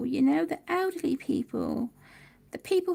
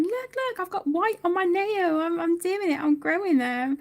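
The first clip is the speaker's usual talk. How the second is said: higher, eager show-and-tell; retold excitement; 4 semitones higher, 4 dB louder than usual. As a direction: proudly show off the nails. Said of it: "was so excited".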